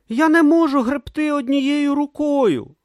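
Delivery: high, loud accusing yell. A narrator's reading. Brutha yelling at Om in the sea, accusing. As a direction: throw his words back at him. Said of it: "заволав він".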